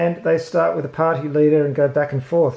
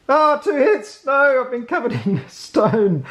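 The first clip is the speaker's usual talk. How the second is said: laughing dismay; 7 semitones higher, 3 dB louder than usual. Pretend.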